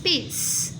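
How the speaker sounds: lápis whispered, only the second syllable. Shown as a demonstration. Teacher imitating a child whispering a syllable. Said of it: "fez a leitura da seguinte forma".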